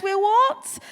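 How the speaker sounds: loud, high incredulous question; acted startled yelp of a question; mock shock. Assistant reacting to his boss's announcement, loudly shocked.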